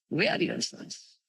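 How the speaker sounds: softly whispered, almost breathed; whispered repeat. Shown as a demonstration. Preacher repeating Mahaprabhu's words to the audience in a whisper. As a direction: let it fall to a hush.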